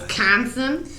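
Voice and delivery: Wisconsin with an exaggerated Jersey "a" in the middle; questioning Jersey-accented Wisconsin. Shown as a demonstration. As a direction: lean on the middle of Wisconsin as "Wis-CAN-sin", Jersey-style. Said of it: "sound like you're from New Jersey".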